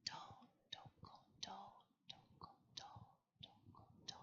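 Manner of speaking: whispered drum sounds, barely voiced; very quiet drumming. A narrator's reading. The smallest squirrel drumming softly on a tree, whispered. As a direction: breathe the beats out like a tiny drum. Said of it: "It was a very, very quiet sound".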